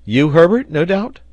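high, loud, eager question; delighted guess. A narrator's reading. Sailor asks who made the discovery, excited. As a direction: pounce on the guess, pitched right up.

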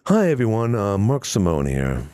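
put-on radio voice, slowing and dropping at the end; Mark Simone impression. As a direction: mimic an easygoing host's greeting. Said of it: "Mark Simone's a little bit more softer".

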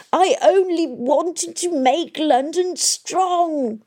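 high, slow sobbing lament; sobbing old man. A narrator's reading. Old Kroom sobbing over London. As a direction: weep out the words. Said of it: "the old man sobbed".

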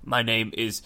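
slow, garbled nonsense name; slurred mock-exotic name, drawn out; mock garbled introduction. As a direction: pretend to introduce an unpronounceable name. Invents an absurd, unspellable foreign name.

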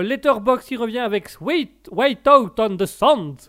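put-on French host reading the title slowly in an English accent. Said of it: "c'était l'accent anglais, ça?". (titre lu lentement avec l'accent anglais)

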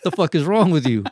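exasperated rant at the other driver, played for laughs; retold road-rage outburst. Storyteller replaying his threat to the honking dude, mock furious.

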